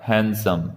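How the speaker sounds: हैंडसम said "HAN-sum", no D; correct pronunciation, silent D. Shown as a demonstration. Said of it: "सही उच्चारण होगा हैंडसम".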